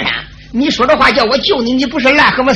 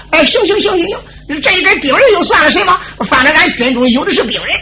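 laughing give-in; 4 semitones higher than usual. Acted. Xue gives in with a laugh.

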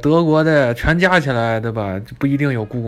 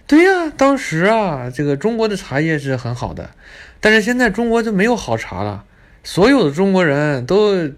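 mock boastful guide; 5 semitones higher than usual. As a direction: brag like a snob.

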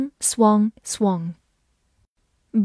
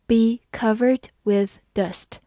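slow model reading; slower than usual. Shown as a demonstration. Phrase repeated slowly for learners.

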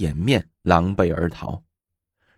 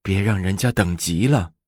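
kindly. Acted. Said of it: "住持和颜悦色地说".

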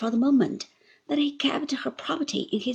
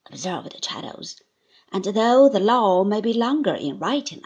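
loud, deliberate terms; firm Traddles; 4 dB louder than usual. Acted. Traddles sets terms for Uriah, firm and loud. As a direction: lay down the law.

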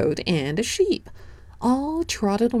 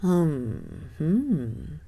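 thoughtful bear hum; 5 dB quieter than usual. Acted. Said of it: "said the bear".

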